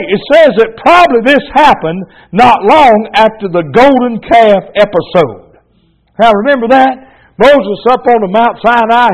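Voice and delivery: rising, fired-up revival preaching; fiery preaching. Acted. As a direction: preach it to the congregation with growing fire. Fired-up sermon storytelling.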